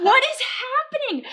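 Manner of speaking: high, slow, drawn-out mock wail; retold bawling. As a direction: imitate helpless bawling mixed with laughter. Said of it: "as I'm bawling".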